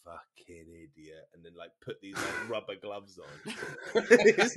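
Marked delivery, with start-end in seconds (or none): 0.0-1.2 low, slow, very soft reproach; disgusted scolding. Retold or imitated. Policeman who caught him hiding the spliff, quietly scolding. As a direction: let it drop, slow and weary.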